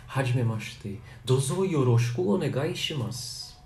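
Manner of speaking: HAJIMEMASHITE DOZO YOROSHIKU ONEGAI SHIMASU in careful Japanese; formal Japanese greeting. Shown as a demonstration. Greeting an older person, careful formal Japanese. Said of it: "você vai falar assim".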